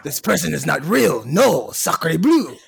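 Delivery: hammed-up bad French accent, dragging the last words slowly; mock a French contestant in a clumsy French accent; terrible French accent. Mocking French contestants debating a catfish, bad French accent. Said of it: "That was a terrible French accent".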